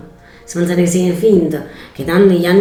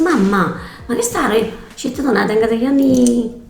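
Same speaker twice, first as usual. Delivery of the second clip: put-on quoting the girl, pitched up; raised quoting voice; 6 semitones higher than usual. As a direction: lift the voice for the quote. Retelling daughter's words. (voce alzata per la citazione)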